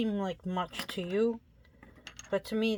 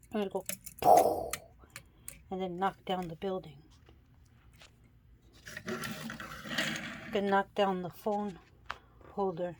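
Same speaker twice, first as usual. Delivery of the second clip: quiet; 2 semitones lower, 5 dB quieter, faster than usual. Real, not acted. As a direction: keep your voice down, softer. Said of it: "I'm trying to be quiet 'cause the baby's sleeping".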